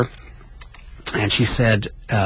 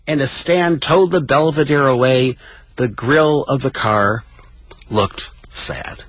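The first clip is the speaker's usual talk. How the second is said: poignant closing narration; 6 semitones higher, slower than usual. Acted. Host closing Billy Crystal's memoir passage, poignant reading. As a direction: let the last words fall away.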